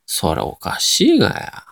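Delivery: slow Nagoya dialect retort; 名古屋弁. Shown as a demonstration. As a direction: answer in drawn-out Nagoya intonation. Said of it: "名古屋弁っぽい言葉を喋ってみて". (名古屋弁でゆっくり言い返す)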